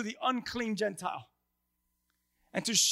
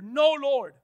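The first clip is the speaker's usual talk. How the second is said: defiant refusal; 4 semitones higher, 4 dB louder than usual. Acted. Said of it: "Peter's reply was a defiant".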